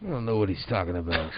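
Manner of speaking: Christian Bale Batman voice. Acted. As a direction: rasp it low like a brooding Batman. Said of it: "But he sounds like Christian Bale".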